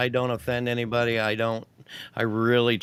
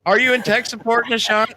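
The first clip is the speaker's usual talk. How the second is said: high, loud South Asian put-on accent; mock South Asian accent; 12 semitones higher, 5 dB louder than usual. Teasing in the mock support accent.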